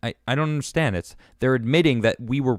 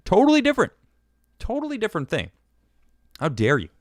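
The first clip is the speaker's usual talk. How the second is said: sarcastic; 10 semitones higher, faster than usual. Real, not acted. Mocking the fact-checkers' claim.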